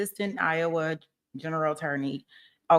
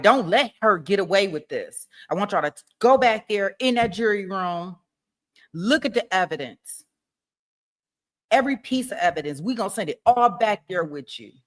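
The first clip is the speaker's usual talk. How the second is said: fiery prosecutor; 2 semitones higher than usual. Pretend. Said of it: "I want him to raise his voice".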